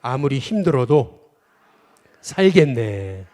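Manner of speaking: preacher leading a call-and-response; slow call to repeat. Shown as a demonstration. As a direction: declaim it slowly so everyone can repeat it. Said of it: "또 따라해 보겠습니다".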